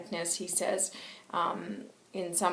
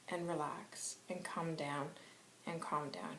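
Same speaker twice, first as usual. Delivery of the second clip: soft calming voice; 3 semitones lower, 12 dB quieter than usual. Retold or imitated. Calming close of the message.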